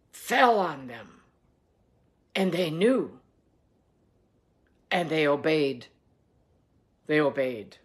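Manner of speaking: steady, measured Bible reading aloud; scripture reading. Acted. Pastor reading scripture to the church, steady and measured. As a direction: read the gospel to the congregation. Reads the gospel passage aloud.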